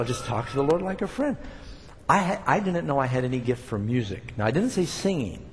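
ordinary delivery

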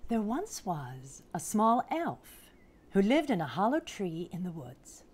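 picture-book storytelling, unhurried pauses; storybook narration. A narrator's reading. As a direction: read it to small children, savouring the big words. Reads picture book aloud.

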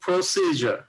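প্রসিজার with সি stressed and held; demo, long সি then short জার. Shown as a demonstration. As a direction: lean on সি in প্রসিজার, then drop. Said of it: "এই সির উপরে এখানে একটা stress হবে".

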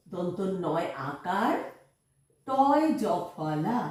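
দয় জফলা drawn out very slowly; slow spelling. Shown as a demonstration. Teacher spells দয় জফলা slowly for the children. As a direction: spell it out syllable by syllable. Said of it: "spelling out".

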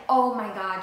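loud exclamation of relief. Real, not acted. Vlogger relieved at remembering the word, loud exclaim.

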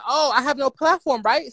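sarcastic mock repeat of the insult. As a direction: throw her words back with scorn. Mocking her insult back.

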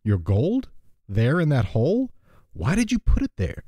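storytelling read-aloud; lightly voiced story narration; fable reading. A narrator's reading.

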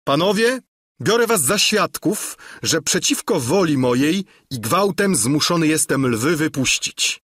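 keeper loudly calls the gentlemen as witnesses; loud declaration. Acted. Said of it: "głośno w tej chwili przemówił". (głośne, uroczyste ostrzeżenie)

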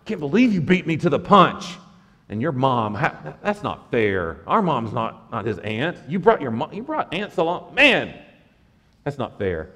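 lightly voiced petty complaint; jealous whining disciples. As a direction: whine like a kid beaten to it. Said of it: "They're mad at James and John".

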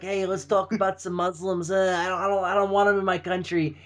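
lightly voiced sniveling Trump; a hint of a sniveling Trump; Trump impression. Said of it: "you gotta talk like this".

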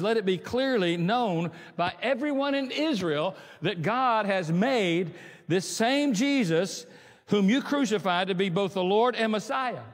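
slow, weighty verse read; slow solemn Bible reading; scripture reading. Acted. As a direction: read out Peter's words with gravity. Reading Peter's words.

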